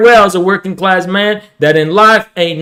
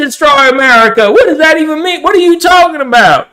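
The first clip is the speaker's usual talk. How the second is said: redneck; 5 semitones higher, faster than usual. Acted. Redneck character reacts, higher voice.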